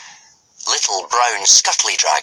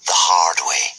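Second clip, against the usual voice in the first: whisper; 3 semitones lower than usual. A narrator's reading. Dramatic aside ending sentence.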